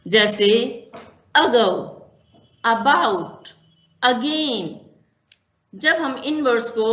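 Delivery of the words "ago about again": ago, about, again said with a quick weak first vowel; teacher showing the weak schwa; schwa demo. Shown as a demonstration. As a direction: model the schwa at the start of each word. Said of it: "जहां पर हम बहुत जल्दी से किसी भी word को pronounce".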